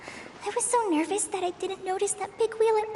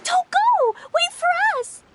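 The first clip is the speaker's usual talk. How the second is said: calling out; 7 semitones higher than usual. Acted. Chasing the water droplet as it leaves, calling out. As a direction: shout after it so it doesn't leave.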